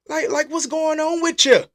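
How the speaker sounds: indignant question, no special weight on "with"; mock challenge. Shown as a demonstration. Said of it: "Not with you, with you".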